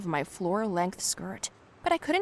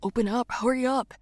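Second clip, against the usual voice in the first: higher, urgent plea; agitated urging; 4 semitones higher, 4 dB louder than usual. A narrator's reading. Colin knocks on her car door, agitated and urgent. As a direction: press them to hurry, agitated. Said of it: "He was agitated".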